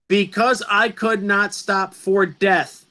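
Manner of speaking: each syllable marked out; counting the beat. Shown as a demonstration. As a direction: tap out the meter of "Because I could not stop for death". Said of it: "That's eight syllables".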